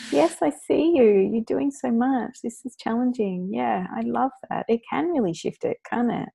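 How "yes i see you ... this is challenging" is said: validating friend. Retold or imitated. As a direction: reassure a worn-out parent. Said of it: "We need someone to go".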